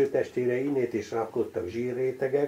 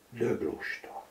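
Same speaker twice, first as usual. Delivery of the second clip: Döglusta said dög, short pause, then lusta; half-smiling, break Döglusta after dög; 5 dB quieter, slower than usual. Acted. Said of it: "kis szünetet tartva a dög után". (Döglusta: a dög után kis szünet, majdnem mosolyogva)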